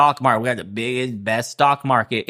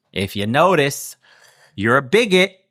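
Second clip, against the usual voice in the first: mock accuser. Mocking accusers' line.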